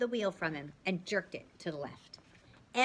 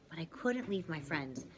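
usual speaking voice

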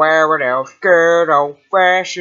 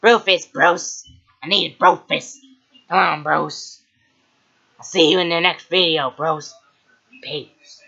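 PewDiePie impression. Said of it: "My name is PewDiePie".

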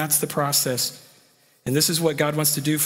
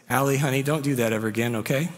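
gentle father; faster than usual. Retold or imitated. Father kneels, gently speaks to daughter.

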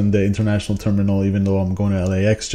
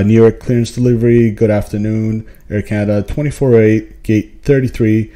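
crisp, louder radio call to clearance; pilot radio call; 6 dB louder than usual. Shown as a demonstration. Pilot requesting clearance from New York, crisp radio call. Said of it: "I'm gonna say something to the effect of".

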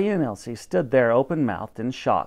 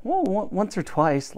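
put-on girl's fibbing voice; 6 semitones higher than usual. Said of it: "lied the girl".

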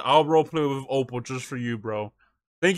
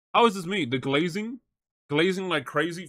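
indignant protest; 3 semitones higher than usual. Real, not acted. Streamer protesting chat's glazing claim, indignant. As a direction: push back at the accusation.

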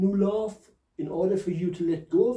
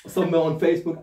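laughing; 5 dB louder, faster than usual. Real, not acted. Laughs about subtitles.

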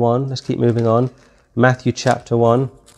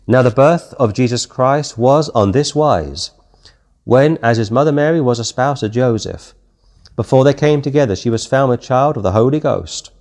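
scripture reading. Acted. Reads scripture aloud.

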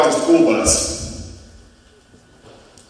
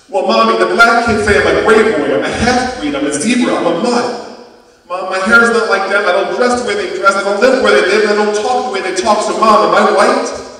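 put-on high, loud child's plea; a little boy begging for an answer; boy pouring out his hurt to his mother; upset child pleading; 7 semitones higher, 7 dB louder than usual.

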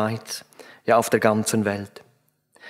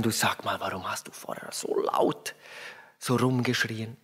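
gentle soft question; 4 semitones lower, 9 dB quieter than usual. Retold or imitated. Father softly asks girl on lap.

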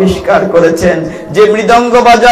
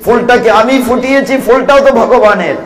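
humble prayer. Acted. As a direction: offer it humbly, letting the voice sink away. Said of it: "বলি".

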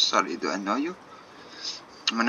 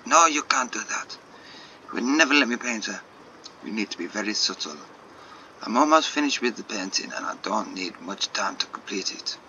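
put-on French accent. Artist cutting Jacob off to protect the painting, French accent. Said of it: "so many shit French accents".

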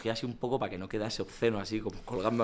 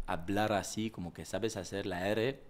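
French accent with a lightly polished R; slower than usual. Shown as a demonstration. Actor showing his refined version, light French accent. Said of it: "la R esa la pulí".

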